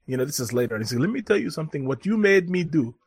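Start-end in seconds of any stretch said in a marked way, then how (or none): 1.0-2.9 imitated Ugandan accent. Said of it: "this whole thing in the accent".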